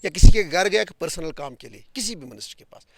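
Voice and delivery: emphatic protest. Real, not acted. Interrupted politician rebuts the interviewer about his grievance, loudly insistent. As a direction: push the denial out forcefully. Guest heatedly denies seeking personal favours.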